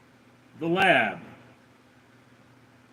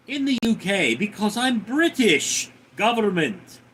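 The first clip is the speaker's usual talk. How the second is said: lightly put-on Russian accent reading chat; 4 semitones higher than usual. Streamer reads chat to his viewers in a light Russian accent. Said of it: "pretty good Russian accent".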